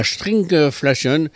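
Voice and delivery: "stringflation" said slowly with an English accent. Shown as a demonstration. Consumer columnist on the radio, pronouncing stringflation slowly with an English accent. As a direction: give the word "stringflation" a slow English-accented reading. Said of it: "excusez-moi pour mon accent anglais".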